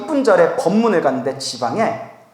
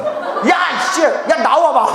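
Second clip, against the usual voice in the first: higher, playful shout of temper; mock angry outburst; 6 semitones higher, slower than usual. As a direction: blow up for comic effect. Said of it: "진짜 승질 같아서 엎어버리고 싶었어요". (욱해서 버럭하는 시늉)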